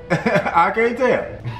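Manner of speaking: laughing through it, slow; can barely get it out for laughing; slow laughing repeat. Acted.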